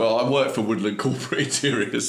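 put-on light Cockney accent; mild working-class Cockney accent. Delivery man introducing his firm, light Cockney accent. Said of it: "In a Cockney accent".

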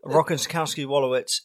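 Rockenkowski Wolowitz drawn out slowly, put-on; Howard Wolowitz voice. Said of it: "I had to say it".

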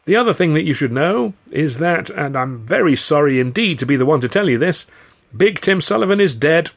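high, loud, urgent news-breaking; strained, emphatic delivery; nervous announcement. A narrator's reading. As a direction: break it to them anxiously, stressing the regret. Nervous man breaks news to thugs.

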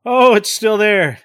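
slow, resigned and heavy; defeated voice that it is still there; fatalistic resignation. Acted. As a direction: give up hope as you say it. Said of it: "fatalistic resignation in his voice".

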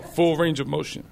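lightly imitated French accent; a hint of a French accent on the quote. Trainer insisting on squat depth, in a French accent. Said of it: "he says it in his French accent".

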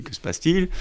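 the general's worry jumps up a notch; alarmed general. Retold or imitated. American general demands to know, pitch leaping in alarm. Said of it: "bien sûr, le général américain".

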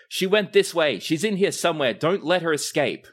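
loud, high guard shouts; guards shouting. Acted. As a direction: yell like guards on the hunt. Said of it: "you hear voices shouting".

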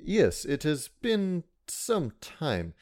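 slow, measured giant character; reply formally, word by word; Condemned. Acted. Condemned answers a fellow giant in Giant, slow and measured. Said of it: "Condemned will reply also in giant".

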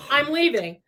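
mildly snapped imitation; quick mock walkout line; snapping. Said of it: "this snapping thing he did".

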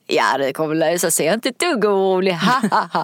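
lightly imitated giggly, glittering voice; a hint of a giggly, carefree caller; Benny Rosenqvist. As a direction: reassure with a little chuckle tacked on. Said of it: "sin glittriga röst som är lite fnissig".

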